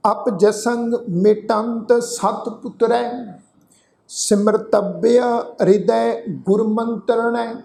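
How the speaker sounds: slow, measured chant of the verse; scripture recitation. Acted. Teacher reciting the shalok for the sangat to repeat, slow chant. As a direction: intone each line slowly for them to follow.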